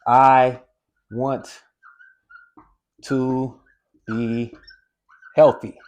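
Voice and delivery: I want to be healthy, each word set apart by pauses; slow word by word. Shown as a demonstration. Coach showing the hidden message, slow and deliberate. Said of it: "you're saying the same thing here".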